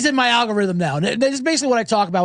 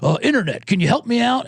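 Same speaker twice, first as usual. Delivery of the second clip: Tizzy impression. Host mimics the guy who cancels people, drawling impression. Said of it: "he talks like this. He goes".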